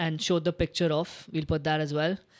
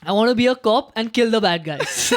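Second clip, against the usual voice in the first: laughing fighter quote; 3 semitones higher, 5 dB louder than usual. Retold or imitated. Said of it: "he was just screaming".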